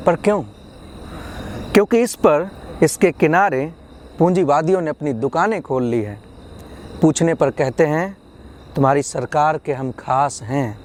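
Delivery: measured poetry reading, phrase by phrase; poem recitation. Acted. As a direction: lift the opening of each thought, then settle. Recites second poem on education.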